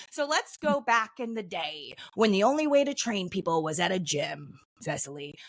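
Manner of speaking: lightly played gym meathead; a hint of an old-school gym bro. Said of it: "Is that your old day voice or your meathead voice?".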